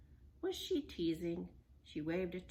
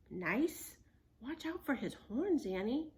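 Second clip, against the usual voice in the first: alarmed; 4 semitones higher, 4 dB louder than usual. Acted. Alarmed warning.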